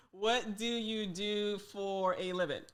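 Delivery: slow, deliberate imitation London accent; playful attempt at a London accent; put-on London accent. Shown as a demonstration. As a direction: do a London accent, drawing the question out. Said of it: "let me do the accent for you".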